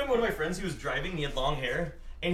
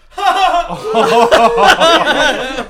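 big, high, loud mock laugh; retold burst of laughter; 9 semitones higher, 15 dB louder, much slower than usual. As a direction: burst out laughing at someone's tumble. Retells laughing at fallen woman.

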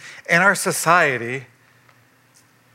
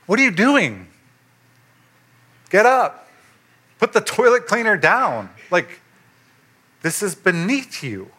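shocked protest; 5 semitones higher than usual. Retold or imitated. Shocked host to boss.

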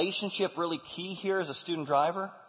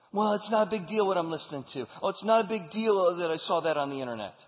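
lightly voiced whiny teen, a bit higher; mock kid excuse; 3 semitones higher, 4 dB louder than usual. Preacher mimics a teen shrugging off what he watches, lightly whiny. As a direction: brush it off like a sulky kid.

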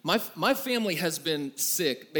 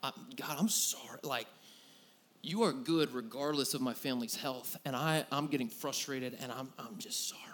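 quiet, softer confessional prayer trailing to a whisper; 2 semitones lower, 5 dB quieter than usual. Retold or imitated. Pastor retelling his apology to God, soft whispered prayer. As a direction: pray it humbly, fading to a whisper. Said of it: "I had to pray".

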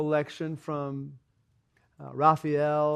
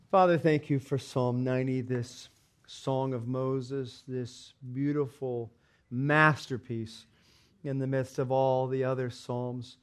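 prayer. Acted. Pastor leads congregation in reverent, slowed prayer. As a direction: pray gently to the Father.

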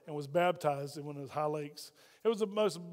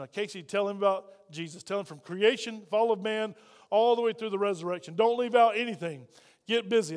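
louder, rising push to get busy; urgent push; 4 dB louder than usual. Retold or imitated. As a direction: hurry him into preaching everything. Urging translator to preach fully.

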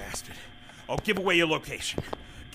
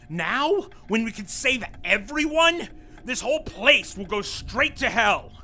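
high, raised, urgent pleading; desperate pleading; 5 semitones higher, 3 dB louder than usual. Acted. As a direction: beg with rising panic.

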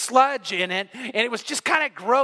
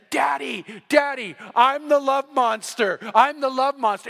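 put-on excited little girl; 3 semitones higher than usual. Muddy girl calling to her dad, excited. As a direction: imitate a kid hollering for Daddy.

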